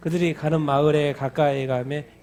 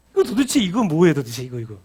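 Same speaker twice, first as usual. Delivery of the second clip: exasperated reader; 6 dB louder than usual. Retold or imitated. Voiced frustrated reader.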